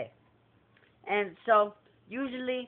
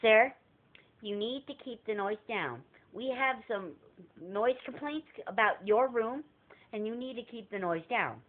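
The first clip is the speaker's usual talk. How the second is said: a lightly put-on official hotel voice; fake hotel clerk; 2 semitones higher than usual. Prank caller posing as hotel staff to the guest, stiff official voice. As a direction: play it like stiff front desk staff. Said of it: "We're like".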